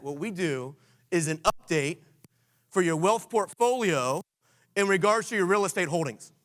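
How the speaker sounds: slow, deliberate pitch line; slow script demo. Shown as a demonstration. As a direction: spell out the phrase slowly so they can learn it. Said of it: "let me challenge you with this".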